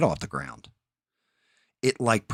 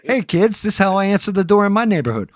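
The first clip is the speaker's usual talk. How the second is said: much higher, louder sketch-comedy voice; Mister Robinson impression; 13 semitones higher, 11 dB louder, faster than usual. Telling the kids how he greets visitors, in a high, loud mock host voice. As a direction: belt it out like a TV kids' host gone rough. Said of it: "on Eddie Murphy on Saturday Night Live. That was Mister Robinson's".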